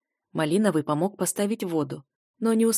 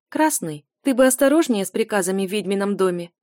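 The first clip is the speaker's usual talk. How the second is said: feigned sternness; 3 dB louder than usual. Acted. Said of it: "напустив строгости".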